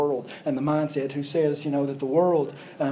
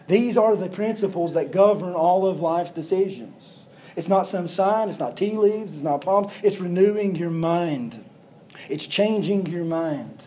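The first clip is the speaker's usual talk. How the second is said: raised voice, slow and emphatic; full-force preaching; 3 semitones higher, slower than usual. Acted. Pastor hammering home his point to the church, full-force preaching.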